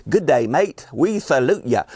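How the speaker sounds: put-on a quick, hammy stab at an Australian accent. Horror host greets Australian fans in a mock Australian accent. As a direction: toss off a jokey Australian greeting. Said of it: "I tried with the accent".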